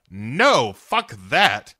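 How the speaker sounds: a touch of grouchy dismissal; Grumpy Cat. Acted. Cat rejecting the synthy score, lightly disgusted. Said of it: "and Grumpy Cat is like".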